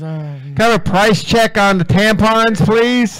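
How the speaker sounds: mock store intercom call; mock cashier call. Mock cashier calling out price check.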